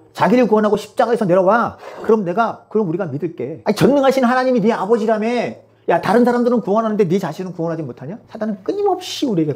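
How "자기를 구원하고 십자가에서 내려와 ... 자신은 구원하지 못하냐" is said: higher-pitched taunting; mocking crowd. Crowd daring Jesus to save himself, mocking. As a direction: dare him with scornful challenges. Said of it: "사람들이 예수님을 조롱하며 뭐라고 그러죠?".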